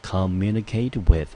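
slow teacher emphasis on communicate with; emphasized collocation. Shown as a demonstration. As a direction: drill the phrase communicate with. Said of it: "注意搭配的介系词要用with".

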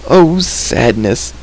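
slow, drawn-out mournful moan; moaning creature. A narrator's reading. Creature lamenting to Terran, moaning. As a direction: stretch the words into a lament. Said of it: "Gurgi moaned".

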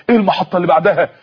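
quick "إيه المحطة اللي بعدها؟" that falls at the end; eager question. Acted. Eager young man asks back. ("إيه المحطة اللي بعدها؟" سؤال سريع متلهف)

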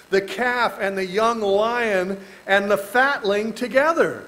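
slow, solemn reading of the verse; scripture reading. Acted. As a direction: read the verse slowly and solemnly.

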